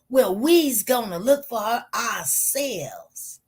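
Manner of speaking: slow, drawn-out Southern family voice; lightly put-on Southern drawl; imitated Southern accent. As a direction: imitate a Southern relative, stretching the words. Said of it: "what they said in their Southern af-, accent".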